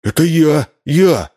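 put-on high, eager child; boy claiming the prize; jumping for joy. A narrator's reading. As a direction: bounce with happiness. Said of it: "запрыгал от радости Вова".

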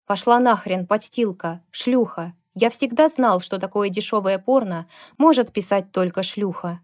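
hissing insults. Acted. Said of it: "прошипел Кевин".

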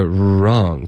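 "wrong" opening on a tightly rounded R; puckered R. Shown as a demonstration. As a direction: pucker the lips to start "wrong". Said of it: "开头嘴唇撅起来". (“wrong”开头撅起嘴唇)

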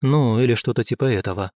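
ordinary delivery, nothing marked

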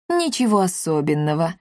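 casual, offhand shrug; indifferent. Acted. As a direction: brush it off, unbothered. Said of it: "равнодушно сказал он". (равнодушно, небрежно)

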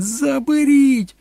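slow, stretched, very high shriek; drawn-out scream. A narrator's reading. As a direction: scream it long, in desperation. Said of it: "репетувала Кетрін". (протяжно репетуючи)

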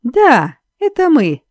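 high, loud furious bellow; furious yell. A narrator's reading. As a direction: scream it in her face. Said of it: "орал он".

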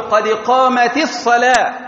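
قامت linked to الصلاة with a short i, "qamati s-salah"; kasra on ta. Shown as a demonstration. Teacher showing the rule, short i after the t of قامت. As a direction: give the t of قامت an i vowel. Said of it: "حركت التاء بالكسر".

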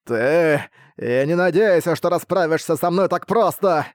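slow, rising monster roar; booming arrogant alien overlord. Acted. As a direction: summon his brood with a roar. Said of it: "прокричал Маситу".

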